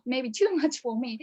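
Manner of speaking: ordinary talk, nothing marked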